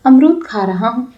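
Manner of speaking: a hint of a scared boy; mildly nervous, caught out; timidly. A narrator's reading. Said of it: "उसने डरते हुए कहा". (डरते हुए, धीरे से)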